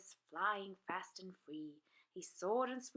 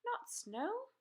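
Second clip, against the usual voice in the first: higher, louder firm instruction; dragon teacher correcting; 10 semitones higher, 4 dB louder than usual. A narrator's reading. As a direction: set them right. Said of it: "said Madam Dragon".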